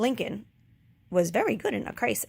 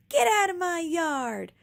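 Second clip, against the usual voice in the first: higher, louder angry shout; 8 semitones higher, 4 dB louder than usual. A narrator's reading. Eugenia shouting as she chases the pig, angry shout. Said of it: "shouted Eugenia".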